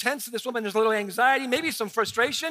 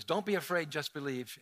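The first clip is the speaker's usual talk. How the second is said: sing-songy cliche; 6 semitones lower, 6 dB quieter than usual. Shown as a demonstration. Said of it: "in a real sing-songy, cliche".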